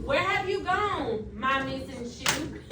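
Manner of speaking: put-on a lightly expressive read-aloud of a children's poem. Teacher reads poem aloud.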